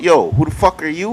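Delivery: imitated confrontational challenge, ending on a rise; aggressive. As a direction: act out someone coming at you aggressively. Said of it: "when you come aggressive talking about".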